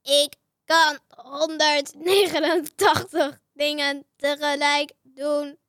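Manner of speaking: slow, loud robot boast; lightly voiced bragging robot. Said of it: "hij praat bij mij zo".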